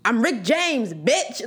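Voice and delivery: a near-plain casual quote of the line; understated, no yelling; a singer's catchphrase. Retold or imitated. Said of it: "that's how he said it".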